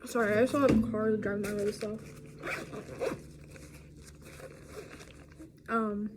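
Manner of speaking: talking around a chew; words through chewing candy; chewing while talking. Real, not acted. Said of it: "Sorry for the chewing noises".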